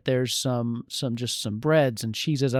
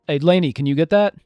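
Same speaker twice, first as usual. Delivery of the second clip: gruff voice; 3 semitones higher, 7 dB louder, faster than usual. Acted. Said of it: "this gruff voice".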